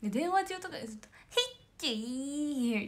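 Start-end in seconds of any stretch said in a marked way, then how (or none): 1.3-2.9 slow, drawn-out cute sneeze sound; mimicked sneeze. Idol shows how Momoka sneezes on calls, slow cute sneeze. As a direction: stretch out a tiny sneeze. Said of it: "みたいな".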